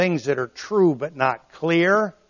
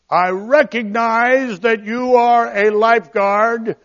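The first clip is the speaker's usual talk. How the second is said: hammed-up polite plea, higher and louder; mock overly polite drowning man; 8 semitones higher, 8 dB louder than usual. Shown as a demonstration. Drowning swimmer politely asking the lifeguard, hammed-up courteous plea. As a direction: ask to be saved far too politely. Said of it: "If you don't say it like that, it won't work".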